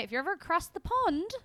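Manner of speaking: a light, playful stab at British; lightly put-on British accent; attempted British accent. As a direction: try on a British accent, half-jokingly. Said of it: "a better British accent than that".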